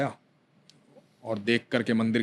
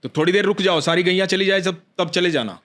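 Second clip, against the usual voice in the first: put-on young cowherd boy; 5 semitones higher than usual.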